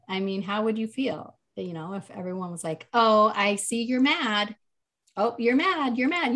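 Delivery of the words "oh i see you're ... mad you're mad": mimicking presumptuous labellers. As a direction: imitate people insistently telling someone how they feel. Mimics people labelling her daughter's feelings.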